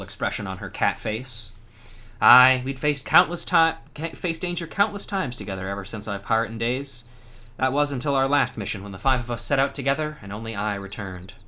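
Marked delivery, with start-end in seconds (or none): 2.2-11.3 a hint of grief in a pirate voice; mournful pirate. Cat pirate mourns her fallen crew to the hero, lightly sorrowful. Voicing grieving pirate NPC.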